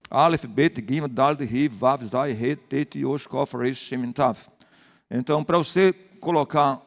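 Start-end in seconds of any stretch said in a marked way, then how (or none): 0.1-4.4 Aleph, Bet, Gimel said one by one like a roll call; reciting the Hebrew alphabet. Shown as a demonstration. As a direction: pastor listing the Hebrew letters for the church, recited. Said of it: "são vinte e duas consoantes".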